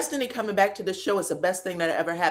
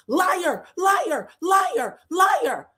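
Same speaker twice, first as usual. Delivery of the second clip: screaming liar; 10 semitones higher, much slower than usual. Retold or imitated. Tisha repeating her scream at Destiny. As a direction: squeal it over and over like a child. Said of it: "She's screaming just repetitively".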